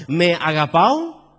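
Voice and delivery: "agapao" slow and loud, as a question; stress on agapao. Shown as a demonstration. Preacher repeats Jesus' second question, stressing "agapao" loudly. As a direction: punch and stretch "agapao". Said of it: "mira cómo se lee".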